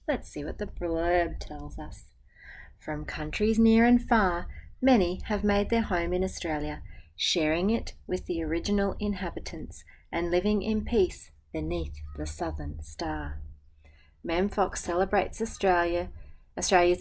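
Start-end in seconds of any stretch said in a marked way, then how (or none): 2.8-13.4 gentle, even picture-book reading; reading to children. Acted. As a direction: read the rhyme aloud to a class. Teacher reads picture book aloud.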